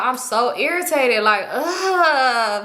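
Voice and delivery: slow, drawn-out put-on exasperation; mock irritation. Friend complains to her about him showing up, unconvincing irritation. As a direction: drag it out into a long, imitated groan. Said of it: "But she don't seem irritated".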